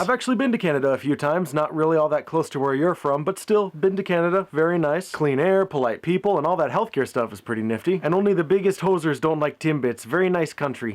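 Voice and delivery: mock Canadian accent. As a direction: play a cheesy Canadian praising Canada. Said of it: "That was a terrible accent".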